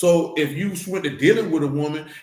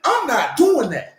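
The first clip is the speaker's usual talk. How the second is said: higher, louder, slow I'm not doing that; loud, slow, final no; emphatic refusal; 8 semitones higher, 4 dB louder, slower than usual. Real, not acted. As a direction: plant your feet on every word.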